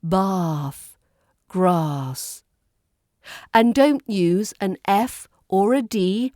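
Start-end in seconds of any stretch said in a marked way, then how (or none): 0.0-2.4 Bath and grass with a long 'ah'; British 'bahth, grahss'; long RP vowel. Shown as a demonstration. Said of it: "much more longer vowel sound".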